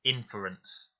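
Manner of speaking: "Inference" stressed on IN, with a short "fer"; short unstressed fur. Shown as a demonstration. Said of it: "it is making a short sound".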